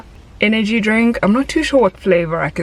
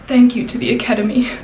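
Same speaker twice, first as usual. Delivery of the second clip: teary acceptance speech; 4 semitones higher, faster than usual. Pretend. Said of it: "as if I'm accepting an award".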